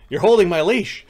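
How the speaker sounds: loud, high-pitched smiling call; said with a smile. A narrator's reading. Ghost teasing Grackle on the stairs, loud and smiling. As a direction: call it out playfully through a smile. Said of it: "he says with a smile".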